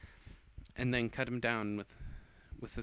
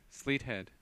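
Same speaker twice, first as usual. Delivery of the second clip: spell incantation; 3 semitones higher, 5 dB louder, much slower than usual. Acted. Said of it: "she said as she stood in position for a magical attack".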